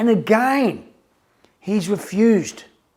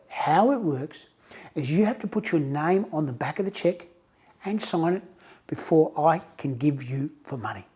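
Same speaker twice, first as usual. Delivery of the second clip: softer, steady bank-teller explanation; patient teller; 3 semitones lower, 6 dB quieter than usual. Retold or imitated. Teller calmly explaining the rule to the nervous customer, soft and patient. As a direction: lay out the policy gently, without pushing.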